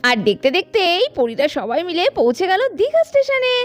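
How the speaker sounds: steady storyteller over music; story narration. A narrator's reading. Narrator telling how the girls reached Digha station. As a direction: narrate the arrival.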